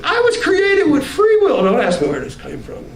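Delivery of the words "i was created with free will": defiant high refusal. Retold or imitated. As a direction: dig in and refuse, voice pitched high. Replayed proclamation.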